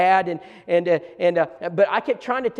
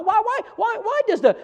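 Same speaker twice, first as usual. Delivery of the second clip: laughing through the repeated whys, pitched higher; 4 dB louder than usual. Real, not acted. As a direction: giggle out the questions. Laughing at own boyish questions.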